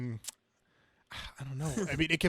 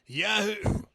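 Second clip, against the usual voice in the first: cheering yahoo; 6 semitones higher, 4 dB louder, slower than usual. Acted. Razorback cheering the shot.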